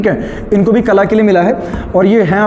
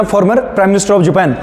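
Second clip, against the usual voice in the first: dictating; much slower than usual. Shown as a demonstration. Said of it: "लिखना".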